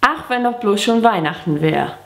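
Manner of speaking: lilting, measured poem recitation; Gedichtvortrag. Shown as a demonstration. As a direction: recite a children's Christmas poem line by line. (Weihnachtsgedicht mit singendem Tonfall aufsagen)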